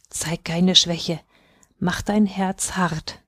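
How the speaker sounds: firm comfort. Acted. Aisha steels Fatima.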